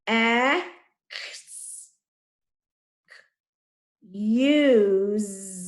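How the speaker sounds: "X, use" broken apart with long pauses; sounding out. Shown as a demonstration. Teacher sounding out excuse, drawn out and segmented. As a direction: stretch "use" to a buzzing Z ending.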